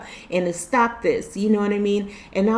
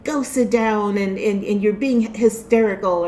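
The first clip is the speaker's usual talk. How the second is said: put-on old-fashioned scolding; 3 dB louder than usual. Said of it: "this is what they would say".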